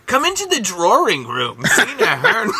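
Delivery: laughing, coach-like gruff bark; Coach Steve voice. Acted. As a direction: play a gym coach, cracking up. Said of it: "turned it into Coach Steve from Big Mouth".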